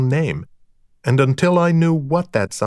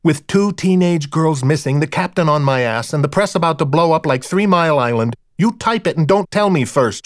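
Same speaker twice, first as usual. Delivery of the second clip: higher, louder, slowed-down tirade that keeps climbing; angry scolding; 5 semitones higher, 3 dB louder than usual. Acted. Deb tears into Deke over the late report, furious. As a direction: hammer him with every charge, rising in anger. Deb berating her partner.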